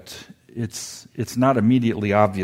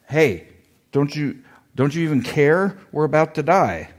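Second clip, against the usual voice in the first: a touch of panic, pitched up and pushed; mock panicked disciples; 5 semitones higher, 3 dB louder than usual. Preacher voicing frightened disciples, lightly panicked. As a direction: disciples mildly freaking out in the storm. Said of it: "They're freaking out".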